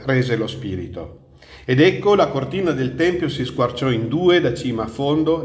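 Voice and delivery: measured, solemn Bible reading; scripture reading. Acted. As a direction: read the Gospel aloud to a congregation. Reads scripture aloud.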